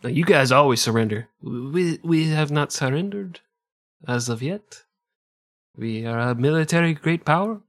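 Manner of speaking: fast put-on Italian-sounding French general; French general defending his army in an Italian accent. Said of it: "I went Italian".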